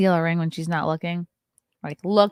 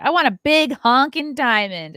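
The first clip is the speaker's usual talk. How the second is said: imitating sister; 6 semitones higher, 7 dB louder than usual. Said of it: "I remember her saying all the time".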